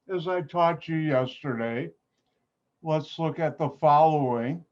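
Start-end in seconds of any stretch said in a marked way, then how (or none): none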